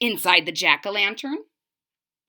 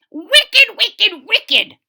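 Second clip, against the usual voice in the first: loud, high angry shout, falling each time; 11 semitones higher, 9 dB louder, much slower than usual. Acted. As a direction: shout it at the varmint. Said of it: "shouted the old man".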